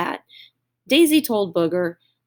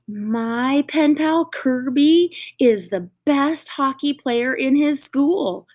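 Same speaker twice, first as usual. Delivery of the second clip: higher, slower proud call; boastful shout; 6 semitones higher, slower than usual. Acted. Booger bragging about his pen pal, shouting proudly. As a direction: brag it out to the class. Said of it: "shouted Booger".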